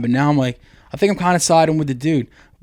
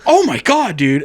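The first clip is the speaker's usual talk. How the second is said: retold shock; 3 semitones higher than usual. Moviegoer to his buddy after the yell, retold shock. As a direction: re-enact stunned, amused disbelief. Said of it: "I was like".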